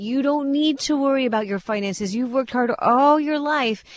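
lightly imitated Southern salesman crooning reassurance; smooth Southern radio pitchman. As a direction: sweet-talk the listener like a Southern radio ad. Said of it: "sweet little Southern twang".

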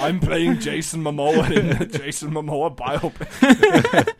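slow, hammed-up Austrian strongman voice; Arnie. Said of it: "you did a vaguely Arnie-ish thing".

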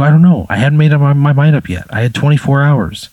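loud protest. Acted.

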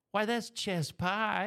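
put-on slow, drawn-out Southern accent. Interviewer imitating locals naming the pie, slow Southern accent. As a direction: drawl it like a Southern local, unhurried. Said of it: "they said".

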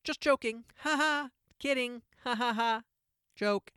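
high, loud mock "just kidding"; sing-song fake laughing backpedal; mocking Disney voice. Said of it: "they immediately went".

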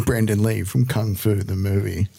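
trailer voice. Shown as a demonstration. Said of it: "give me your trailer voice".

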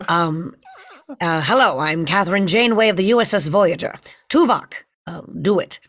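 commanding starship captain; old Hollywood captain cadence; Captain Janeway voice. Pretend. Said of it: "let me see if I can pull something out".

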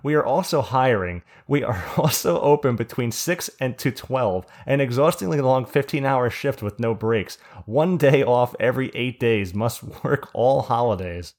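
put-on hammy old-time ad announcer voice; old radio announcer. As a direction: read it like a vintage radio sponsor spot. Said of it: "we have a sponsorship we have to shout out".

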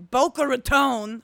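'Boca Raton' said the local way, with a long rise on 'Boca'; Boca Raton pronunciation. Shown as a demonstration. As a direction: give 'Boca Raton' its proper local sound, letting 'Boca' climb. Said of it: "which is how you have to say that".

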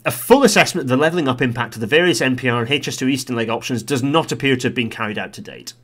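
lightly voiced formal recommendation, emphatic start; Transport Select Committee voice. Vlogger reading an italic recommendation, lightly put-on committee voice. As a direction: read out a committee finding, hitting the opening words. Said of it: "Transport Select Committee voice".

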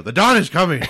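put-on high, loud kid's cry; young kid voice. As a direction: call it out like an excited youngster.

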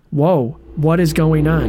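slow, flat, word-by-word reading; flat mock line reading. Mocking the actress's wooden delivery, slow and flat. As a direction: say each word like reading it for the first time. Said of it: "she says".

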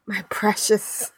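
slow, drawn-out "precious" creature voice; slow, covetous put-on voice; possessive hoarder. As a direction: draw it out like gloating over treasure. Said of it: "I'm like".

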